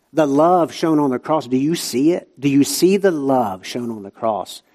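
ordinary talk, nothing marked

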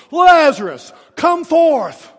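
preacher's all-out cry to the tomb; top-of-the-lungs shout. Retold or imitated. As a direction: bellow it with everything you have. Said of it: "he cries out at the top of his lungs".

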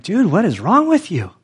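high-pitched incredulous retort; retold exasperation. Speaker answers his buddy's threat, exasperated retort. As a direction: push back at a friend in disbelief.

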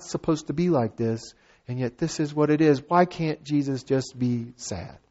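quiet sincere appeal; earnest soft plea. Real, not acted. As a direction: plead gently with the congregation.

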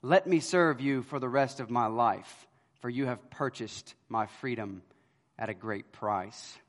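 soft, fading into a hushed, slowing end; a touch of tearful gratitude, trailing quiet; weeping plea. Retold or imitated. Freed slave girl begging to serve her redeemer, hushed and tearful. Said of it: "No, she weeps".

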